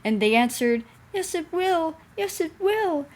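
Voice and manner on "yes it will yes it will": high, creaky, groaning truck voice; sad groany creaking. A narrator's reading. Trucks answer Thomas in a sad, creaky groan. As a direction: groan it out like sorry old trucks. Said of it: "in a sad, groany, creaky sort of voice".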